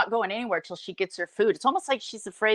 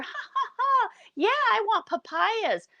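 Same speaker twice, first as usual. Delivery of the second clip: fake giggly laugh; 12 semitones higher than usual. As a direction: giggle for an audience then ask for papayas. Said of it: "she starts talking to the people".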